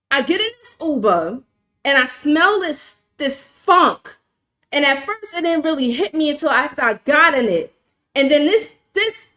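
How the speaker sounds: rising indignation as the story goes; building outrage. Real, not acted. Outraged telling of smelly Uber.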